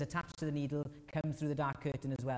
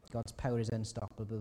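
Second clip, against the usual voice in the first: firmer. Shown as a demonstration. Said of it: "repeated point".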